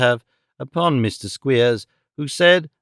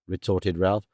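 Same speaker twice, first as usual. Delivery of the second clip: usual speaking voice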